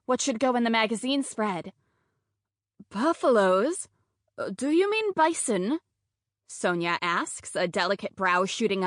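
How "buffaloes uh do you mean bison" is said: a hint of a puzzled reporter; skeptical reporter. Sonia questions skeptically.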